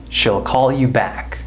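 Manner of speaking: SHE'LL reduced to "shill"; weak SHE'LL, no EE sound; short I contraction. Shown as a demonstration. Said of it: "the way I'm pronouncing it".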